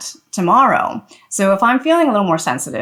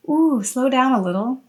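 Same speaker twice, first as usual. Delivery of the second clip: gentle request; 5 semitones higher than usual. Shown as a demonstration.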